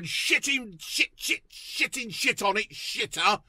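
half-whispered, hushed swearing impression; a light mimic of the sweary dad, breathy and soft; imitating the sitcom dad. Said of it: "the dad going".

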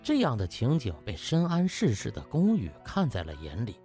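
plain reading voice

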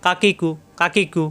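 "কাকিকু" run together without lingering; quick short vowels. Shown as a demonstration. Teacher drilling students, "কাকিকু" with no delay. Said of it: "উচ্চারণ তাড়াতাড়ি".

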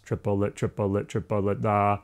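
"triplet" in even beats, first syllable accented, landing on "da"; steady rhythmic "triplet" ending on "da"; straight triplets. Shown as a demonstration. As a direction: count "triplet" out rhythmically, then a held "da". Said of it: "gonna be just triplets".

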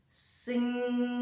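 «Сніг» with the «н» held and pushed; teacher isolating the «н» in «Сніг»; stressing a sound. Shown as a demonstration. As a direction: bring out the second sound of «Сніг». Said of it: "Другий звук".

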